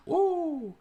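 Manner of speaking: high, loud "woo"; hype whoop. Pretend. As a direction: let out a piercing party whoop. Hump day hype calls.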